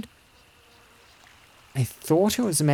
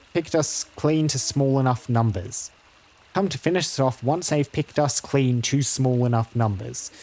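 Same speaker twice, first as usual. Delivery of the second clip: lightly voiced country herder; a hint of a stubborn farmhand; opinionated rustic herder. Herder blaming ogres for the killings, lightly rustic and sure of himself.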